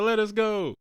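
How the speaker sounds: high-pitched mock plea; imitating a film character. Podcaster imitating Paul and Jessica's demand, high mock voice. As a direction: put it on high and drawn out. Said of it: "Jessica and Paul using the".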